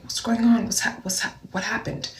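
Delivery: high, stammered worried questions; acted concern. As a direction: fret through stumbling repeated questions. Acts out worried questioning of crying date.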